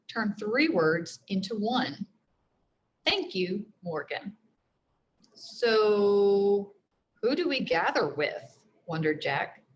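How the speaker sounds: expressive read-aloud narration; teacher reading a chapter book to the class; story reading to children. A narrator's reading.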